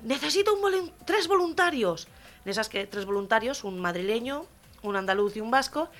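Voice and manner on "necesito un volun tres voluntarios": high-pitched drill sergeant's call; bellowed parade-ground command, pitched high; sergeant's shout. Acted. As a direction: call out an order to the troops. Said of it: "y grita".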